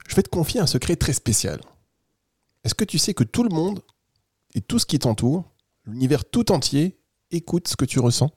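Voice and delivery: lightly voiced, gentle secret-sharing; confiding squirrel. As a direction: confide a special secret to a child. (écureuil qui confie doucement un secret)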